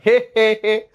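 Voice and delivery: short fake he he he chuckle; mock chuckle. Teacher teasing a student with a put-on chuckle. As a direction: give a playful put-on chuckle. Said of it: "আমি একটা হাসি দিলাম".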